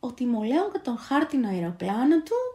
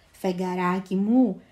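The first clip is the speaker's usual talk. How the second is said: joyful shout; 6 dB louder, slower than usual. A narrator's reading. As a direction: shout laughing as the kite lifts him. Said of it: "φωνάζει ο μικρός φεγγαροσκεπαστής". (χαρούμενη φωνή με γέλιο)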